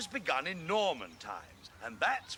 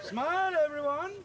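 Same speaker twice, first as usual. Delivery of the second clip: raised voice for the photo; calling out; 10 semitones higher, 6 dB louder than usual. Acted. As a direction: call out cheerfully to the group.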